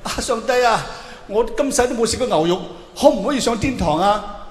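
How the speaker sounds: pleading dead soul. Acted. Comedian voices pleading dead man.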